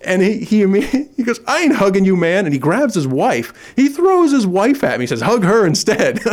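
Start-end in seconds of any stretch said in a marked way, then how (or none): 1.5-2.4 gruff refusal. Retold or imitated. Tough dad refusing a hug. 5.2-6.2 gruff tough guy. Retold or imitated. Tough dad pushing his wife forward.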